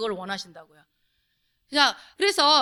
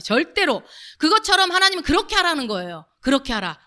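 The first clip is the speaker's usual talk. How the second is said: ordinary delivery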